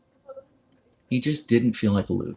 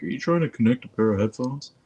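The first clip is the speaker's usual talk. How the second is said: phone voice; 4 semitones higher than usual. Retold or imitated. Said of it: "My phone kept being like".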